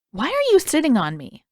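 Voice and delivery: high, loud puzzled question; baffled Aang. A narrator's reading. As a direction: ask from under him, confused.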